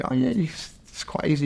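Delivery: high, breezy salesman voice; imitating the dealer. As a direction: toss it off like an easy sales pitch. Retelling yacht dealer's sales pitch.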